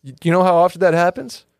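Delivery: upbeat sponsor ad read. Acted. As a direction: pitch it like a radio spot. Host reads sponsor ad.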